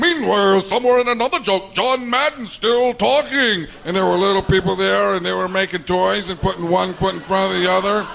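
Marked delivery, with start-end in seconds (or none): 0.0-3.7 dramatic cartoon announcer. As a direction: boom out the scene change. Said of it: "that guy could come in and go".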